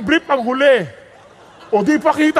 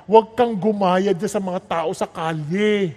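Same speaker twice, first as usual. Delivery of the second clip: tender plea; 7 semitones lower than usual. Acted. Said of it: "the wisdom is telling you".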